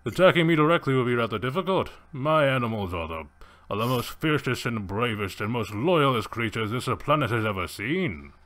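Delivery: hunter proudly showing off his beasts; theatrical gentleman villain, full of swagger; Safari. Acted. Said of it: "And he's like".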